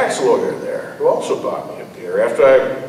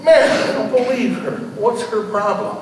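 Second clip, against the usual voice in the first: laughing disbelief; 9 semitones higher than usual. Acted. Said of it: "He turns to me and says".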